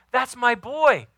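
high, loud, excited father's cry; God's proud voice. Retold or imitated. God announces his son to everyone listening, high and excited. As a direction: proclaim it like a bursting-proud father. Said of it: "He wants his son ... to know".

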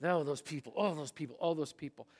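muttered mock contempt, the phrase repeated with a falling tune. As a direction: imitate someone grumbling scornfully about others. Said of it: "listening to the voice of contempt".

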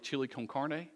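lightly put-on Spanish accent. Preacher naming a Mexican dish to his congregation, Spanish accent. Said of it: "are y'all laughing at my Spanish accent".

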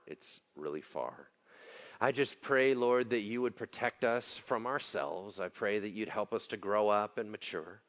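earnest prayer voice; sincere pastoral prayer; closing prayer. Real, not acted. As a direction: pray humbly for the congregation.

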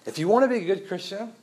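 mock legalist proclaiming from the pulpit; bold legalist declaration. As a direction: announce the rule with authority. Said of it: "So let me be clear".

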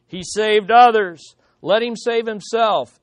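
sneering. Acted. Rulers jeering at Jesus on the cross, sneering. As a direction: mildly sneer as you read it out. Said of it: "sneering at him".

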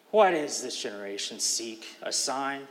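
a heavy breath, then an impatient question; sigh, then ask with frustrated impatience; weary, frustrated reading of Why; impatient, deep breath. Shown as a demonstration. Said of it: "Put that together with a deep breath".

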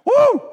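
high, loud joyful whoop; exultant whoop. Real, not acted. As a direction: let out a triumphant cry. Exultant cry at climax.

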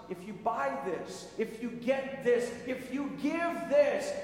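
slow, emphatic mock sales pitch; mock advertising promise. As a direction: spell out the sales pitch slowly. Ad promise parody.

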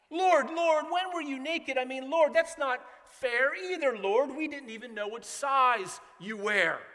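biting sarcasm. Retold or imitated. Goats sarcastically answering the Lord, mock-indignant sarcasm. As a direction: sneer it like a smug goat making excuses. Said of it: "You could hear the biting sarcasm".

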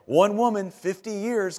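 a mock-panicked replay of the brother's line; half-laughing worried repeat; anxious echo. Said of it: "all I could think of".

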